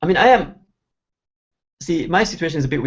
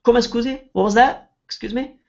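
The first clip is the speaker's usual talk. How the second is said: polite asking; 8 semitones higher than usual. Shown as a demonstration. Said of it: "you can make it nicer with".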